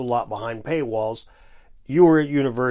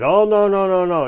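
mock whine; 5 semitones higher, 6 dB louder than usual. Mocking Hancock going to Bimini.

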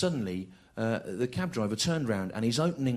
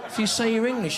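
laughing disbelief; 9 semitones higher, 3 dB louder than usual. Retold or imitated. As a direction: drag out the disbelief, high. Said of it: "I said".

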